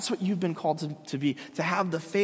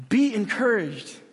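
calm assurance; 5 semitones higher, 4 dB louder, slower than usual. Retold or imitated. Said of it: "Jesus spoke to them".

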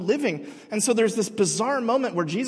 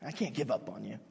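tender God voice; 8 semitones lower, 11 dB quieter than usual. Retold or imitated. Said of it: "He's like".

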